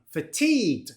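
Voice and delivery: "Fatigued" said fa-TEEGD; "Fatigued" with a stressed ee; stress on second syllable. Shown as a demonstration. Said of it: "the stress on the second syllable".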